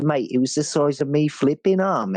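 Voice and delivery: lightly put-on English accent; a hint of a cockney bloke; half-hearted English accent, me arm mate; mock English accent. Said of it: "that weird half-assed English accent".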